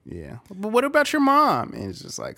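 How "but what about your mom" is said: very high mocking taunt; whiny kid jab; childish taunt. Boxer mocking with mom joke, high. Childish trash talk quoted.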